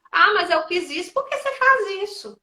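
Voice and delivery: high, loud indignant comeback; mock accusing snap; accusing retort. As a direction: fire it back at them, offended. Acted accusing partner.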